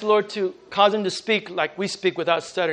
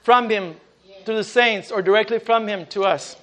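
fervent preaching. Acted. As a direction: preach it to the saints with fire. Preaching at full force.

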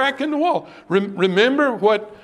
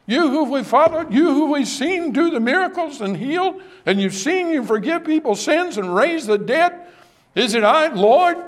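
higher, eager pleading to the Master; fervent plea; 5 semitones higher than usual. Retold or imitated. Disciples begging Jesus to answer, raised and earnest. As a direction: hold the lifted pitch through the question.

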